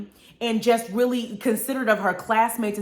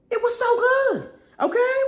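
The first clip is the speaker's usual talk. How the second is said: excited gush. Real, not acted. Gushing over Glass Onion.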